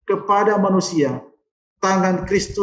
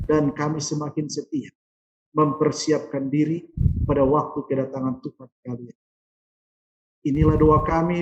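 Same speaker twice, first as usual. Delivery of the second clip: closing prayer; 4 semitones lower than usual. Real, not acted.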